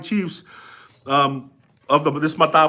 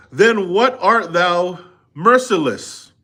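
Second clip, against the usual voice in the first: impatient; 3 semitones higher, 5 dB louder, slower than usual. Acted. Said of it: "Spoken in rather an impatient and, uh, premonitory tone".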